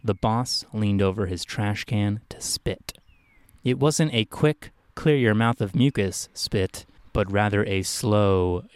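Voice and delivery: measured, slow storytelling read; story narration. A narrator's reading. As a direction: narrate it slowly, phrase by phrase. Reads his own story aloud.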